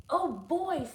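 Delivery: put-on high, eager kid voice; excited Wendell. Wendell thrilled to play firefighter, eager and high. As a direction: cheer like a delighted kid.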